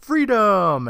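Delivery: loud, high, drawn-out cry; retold scream. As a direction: holler it out like an escaped prisoner. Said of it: "Jack screams out".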